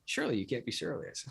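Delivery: deadpan quote. Retold or imitated. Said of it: "He says it so, like".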